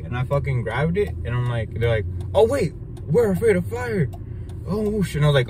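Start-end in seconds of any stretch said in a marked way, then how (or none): 2.3-5.2 high-pitched imitation of scared witches; mock panic. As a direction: wail it like alarmed villains, hammed up. Voices scared witches in retold fight.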